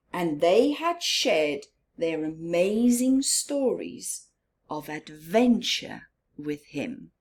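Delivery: put-on gentle storybook reading for children, half-whispered in places; story narration. A narrator's reading. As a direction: read it like story time for little ones, hushed and slow.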